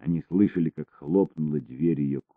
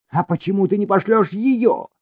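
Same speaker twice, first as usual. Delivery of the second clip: much higher, sharp indignant question; 6 dB louder than usual. A narrator's reading. Elina indignantly challenges Cesare about the other woman. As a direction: demand it, outraged. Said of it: "с негодованием".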